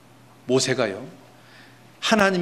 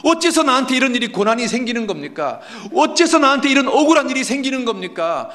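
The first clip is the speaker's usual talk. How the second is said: high, loud wailing protest; stretched, pleading cries of why; impatient outcry; 10 semitones higher, 4 dB louder than usual. Acted. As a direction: cry out to God in hammed-up anguish. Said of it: "하나님에 대해서 오래 참지를 못합니다".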